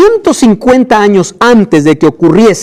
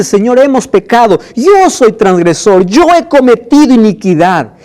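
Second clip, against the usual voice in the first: pleading confession, pitched higher; Daniel praying; 4 semitones higher than usual. Acted. Preacher voices Daniel confessing to God, raised pleading prayer. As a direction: pray as Daniel, earnestly begging forgiveness. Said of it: "Daniel cuando ora dice".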